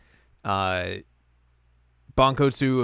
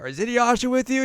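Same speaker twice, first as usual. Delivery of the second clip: put-on much higher, louder worried girl; 13 semitones higher, 5 dB louder than usual. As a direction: squeak it out in a high voice. Kagome voiced in recap.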